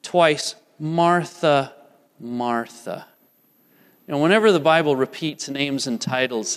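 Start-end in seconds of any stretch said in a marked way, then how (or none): 0.8-3.1 tender rebuke. Retold or imitated. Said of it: "where he says twice".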